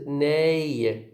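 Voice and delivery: "nei" drawn out as the main beat; bigger stress. Shown as a demonstration. Teacher splits up resignation, "nei" as the bigger stress. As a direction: stretch "nei" as the primary stress. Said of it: "the bigger stress is".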